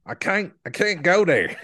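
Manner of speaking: high, twangy redneck voice; redneck accent. Acted. Co-host obliging with a bit of redneck, put-on accent. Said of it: "You gotta get a little bit of redneck".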